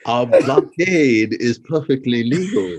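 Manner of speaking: slow, deadpan put-on villain voice; drawn-out movie villain quote in a put-on voice; mock villain line. Friend quoting a villain in a slow put-on voice.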